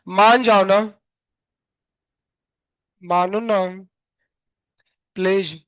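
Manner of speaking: drawn-out mock pleading; half-playful begging; coaxing plea. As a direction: coax it to behave, lingering on the words. Pleading with a balky board.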